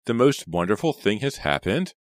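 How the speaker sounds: high, loud, thrilled announcement; very excited. A narrator's reading. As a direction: burst out with wonderful news. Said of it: "never seen Kate so excited".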